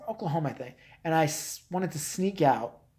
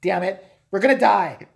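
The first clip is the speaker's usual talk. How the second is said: hammed-up doomsday warning, pitched high; mock panic; 5 semitones higher, 4 dB louder than usual. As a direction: cry out a pretend end-of-the-world alert.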